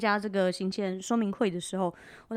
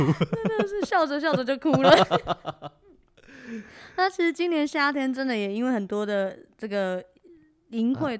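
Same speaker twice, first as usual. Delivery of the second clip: laughing into sobs; 3 semitones higher, 4 dB louder than usual. Real, not acted. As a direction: laugh it out, half crying.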